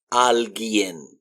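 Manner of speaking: alguien as "AL-gyen", hard g and no u; silent U. Shown as a demonstration. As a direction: model alguien slowly without the u. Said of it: "the u is mute".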